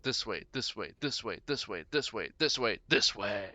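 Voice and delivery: a would-be demon voice that cracks; demonic growl. Acted. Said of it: "That was supposed to be like a deep demonic growl, but I kinda, my throat just gave out a little there".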